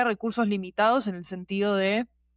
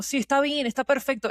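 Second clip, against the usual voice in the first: mock agreement; 5 semitones higher than usual. Mocking agreement with hype sellers.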